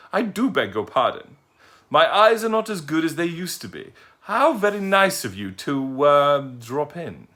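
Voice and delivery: put-on a dotty, courteous old lady; polite old lady. Old lady greeting the owl who fell at her feet, genteel and high.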